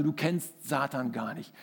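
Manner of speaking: low, soft, slow snarl of a possessed man; retold growl. Man on the sofa growling at the wife, low and slow. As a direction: growl it out low and slowly like a dog. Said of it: "knurrte das aus ihm raus".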